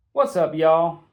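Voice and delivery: a loud, lifted what's up; loud greeting. Acted. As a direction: call it out as you climb in. Greeting friends in the cab.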